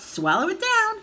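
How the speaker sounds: high, loud urging; excited cry. A narrator's reading. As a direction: cry the order out. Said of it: "George cried out".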